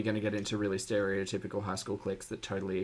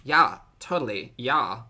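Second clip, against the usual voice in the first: put-on valley girl; 5 dB louder than usual. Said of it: "I can practice my Valley Girl voice".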